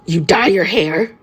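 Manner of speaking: slow, dry deadpan question. A narrator's reading. Bakugo to Kirishima about his dyed hair, slow deadpan. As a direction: ask it slow and dead flat. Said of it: "Bakugo deadpanned".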